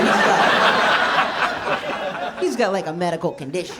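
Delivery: can't hold the laugh in; laughing quote. Retold or imitated. Friends judging his condition, retold laughing. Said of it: "they were like".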